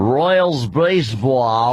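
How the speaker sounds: slow mock announcer boom; radio announcer voice. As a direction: stretch it like a radio guy. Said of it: "Big radio voice".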